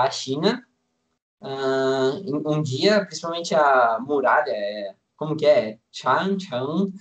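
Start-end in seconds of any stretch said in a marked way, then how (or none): 5.9-6.9 "Changcheng" said the Chinese way, as Chángchéng with Mandarin tones; 长城, 用标准普通话发音; Mandarin pronunciation. Real, not acted. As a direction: pronounce "Changcheng" as a native Chinese word. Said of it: "uau, show".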